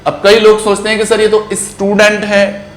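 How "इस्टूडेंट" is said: "स्टूडेंट" with an extra i before the s; mispronounced initial vowel. Shown as a demonstration. Learners voicing their doubt to sir, "स्टूडेंट" mispronounced as is-tudent. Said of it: "it is not student".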